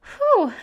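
high, loud "whew" to steady yourself; emotional exhale. Real, not acted. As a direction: blow out the welling tears. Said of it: "I was not expecting to cry".

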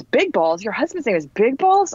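rising disbelief on Balls; mock-incredulous instructor; incredulous repeat. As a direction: echo the name back in disbelief. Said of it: "And Jen goes".

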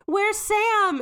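mock-frantic parents asking for their daughter; panicked demand. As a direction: demand an answer in alarm. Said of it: "They're like".

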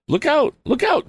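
high, loud alarmed shout; crying out. A narrator's reading. Tom on the stuck motorcycle warns the wagon driver, shouting. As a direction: yell a warning to clear the road. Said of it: "cried Tom".

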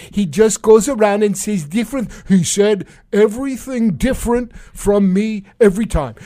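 bad Trump impression. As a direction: ham up a petulant president, badly on purpose. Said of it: "It's a very bad impression of the president of the United States".

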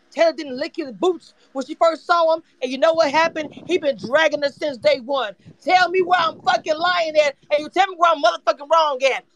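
worked-up, insistent rant; heated challenge. Real, not acted. Daring listeners to contradict the rant, heated. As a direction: dare them to prove you wrong.

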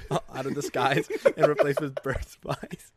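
whispered through laughter; breathy laughing whisper. Real, not acted. Conspiracy told while laughing.

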